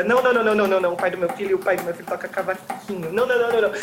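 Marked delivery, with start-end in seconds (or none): 0.0-0.9 frantic denial. Acted. Rejecting each guess, agitated. 3.1-3.7 frantic denial. Acted. Rejecting each guess, agitated.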